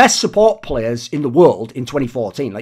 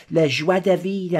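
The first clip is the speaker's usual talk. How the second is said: slow, put-on French accent; lightly hammed French accent; 2 semitones higher, slower than usual. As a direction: savour it in a mock French accent. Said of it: "I mainly just did that to do the accent".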